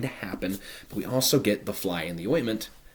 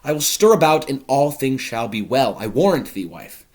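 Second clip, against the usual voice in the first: loud, high, busy host; bustling Capulet; 4 semitones higher, 5 dB louder than usual. Acted. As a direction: take charge with gusto. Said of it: "Capulet says".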